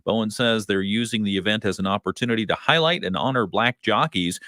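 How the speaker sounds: measured radio newsroom delivery; news read. Real, not acted. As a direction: read it as a local news anchor. Reads the local news.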